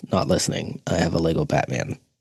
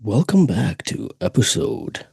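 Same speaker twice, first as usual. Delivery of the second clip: put-on voice; 3 semitones higher than usual. Shown as a demonstration. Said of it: "Different voices".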